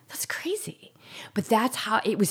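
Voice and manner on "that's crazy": breathy disbelieving whisper. Real, not acted. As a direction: hush it out in disbelief. Aside on own desperate words.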